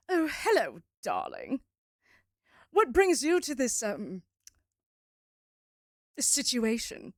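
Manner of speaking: a hint of a silky vampire purr; lightly voiced charmer greeting a newcomer; seductive vampire. GM voicing Astarian greeting the player, lightly seductive.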